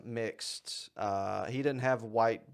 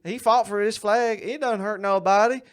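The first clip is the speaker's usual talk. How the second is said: mock redneck; 8 semitones higher, 6 dB louder than usual. Mocking a Southern white-pride voice.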